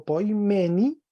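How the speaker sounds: poimeni with "me" accented, ending on a rise; stress on ME. Shown as a demonstration. Teacher going through the dative for a student, stress on "me" in poimeni. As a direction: put the weight on "me" in poimeni. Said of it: "del acento con fuerza".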